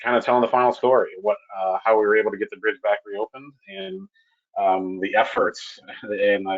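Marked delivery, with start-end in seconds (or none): 5.0-5.8 EFFORTS drawn out slowly; slow down to give "efforts" weight; stress on EFFORTS. Real, not acted. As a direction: lean on EFFORTS, taking it slowly. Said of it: "I stress the word effort".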